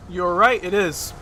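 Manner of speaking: talking with food in mouth; mouth full. Real, not acted. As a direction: speak through a mouthful of pizza. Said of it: "I have food in my mouth a little bit".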